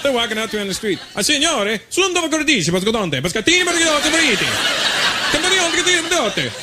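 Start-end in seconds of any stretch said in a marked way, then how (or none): 1.2-6.5 high, rapid-sounding gibberish Italian; mock Italian. Italians on the street to supposed countryman, high mock Italian. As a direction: babble animated fake Italian, pitched way up. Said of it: "they started speaking Italian to me".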